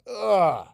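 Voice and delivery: loud, high pained ugh; aching groan. Shown as a demonstration. Teacher showing the aching sound to the class. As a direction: groan like your arms are sore. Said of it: "So say ached with that sound".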